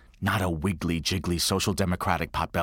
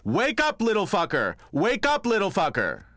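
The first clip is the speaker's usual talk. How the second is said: father rousing son; 10 semitones higher than usual. Retold or imitated. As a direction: bark him awake, playful and big. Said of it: "he'd go".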